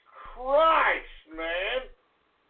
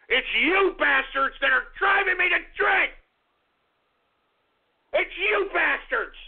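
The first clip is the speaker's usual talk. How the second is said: angry yell; 2 semitones higher than usual. Acted. Ranting host yelling at trolls.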